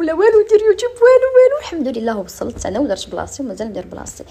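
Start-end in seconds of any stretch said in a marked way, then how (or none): 0.0-1.6 high, loud, insistent no way; mock fierce no, just do YouTube; retold insistent reply. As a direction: push back hard, rising to a near shout. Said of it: "قلت لهم".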